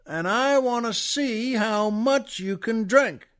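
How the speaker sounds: a big Texan roaring at the whole pub; booming Texan. Retold or imitated. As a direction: boom it out like a big show-off Texan. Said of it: "the Texan just roars out".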